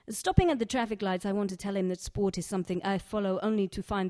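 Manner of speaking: lightly voiced Egyptian accent, poem read in character; a hint of an Egyptian accent from Sharifa telling her story. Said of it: "fully allowed to do this accent".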